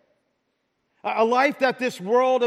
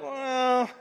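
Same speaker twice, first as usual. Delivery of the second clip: busy excuse-maker. Retold or imitated. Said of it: "And we're like".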